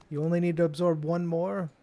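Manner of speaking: lightly voiced bookkeeper. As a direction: slip slightly into the shopkeeper's character. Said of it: "Is that the bookkeeper saying that?".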